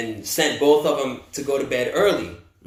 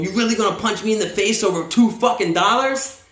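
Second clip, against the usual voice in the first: higher-pitched, incredulous mock challenge; retold indignation, pitched up; acted indignant confrontation; 5 semitones higher than usual. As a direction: play an outraged guard demanding an answer. Acts out staff confronting the man.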